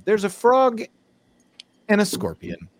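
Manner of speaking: lilting fable narration; measured storyteller's delivery; storytelling. Acted. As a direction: tell it like a well-loved fable. Tells the frog and scorpion fable.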